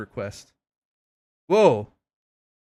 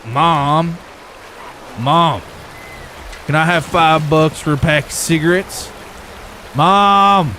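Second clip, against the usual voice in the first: put-on whiny kid calling mom; 4 semitones higher, slower than usual. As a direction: pester mom for cigarette money. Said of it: "I bet you talk like this".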